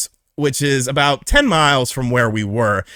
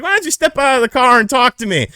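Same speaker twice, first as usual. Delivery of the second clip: mock cop voice; 11 semitones higher, 4 dB louder than usual.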